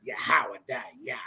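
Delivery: Yahweh Dayah said very slowly; mocking drawl. Scoffing at a made-up language, slow mocking repeat. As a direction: linger on each syllable of Yahweh Dayah. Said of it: "That ain't no damn language".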